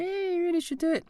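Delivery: very high, squeaky mimicking voice; mock their coaxing in falsetto; nagging friends. Wife and friends urging him online, high mock nagging.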